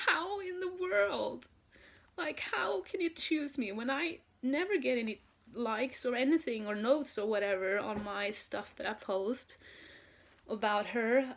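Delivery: retelling her own amazed reaction; stunned disbelief. Retold or imitated. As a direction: ask it like you can't believe you were chosen. Fan disbelieving she was picked.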